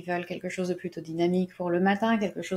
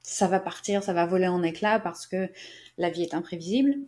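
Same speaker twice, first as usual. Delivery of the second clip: frog in throat. Real, not acted. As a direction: catch in the throat. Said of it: "j'ai un truc dans la gorge".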